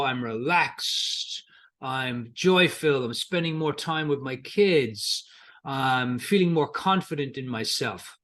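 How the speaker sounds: slow, easy, unhurried voicing of the client; imagined calm client, slowed right down; relaxed client. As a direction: let each line out slowly and calmly. Client imagines life without money worry.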